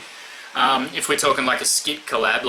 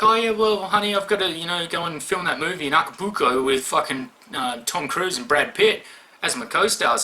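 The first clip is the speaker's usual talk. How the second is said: imitated actress girlfriend; 5 semitones higher than usual. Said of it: "she's like".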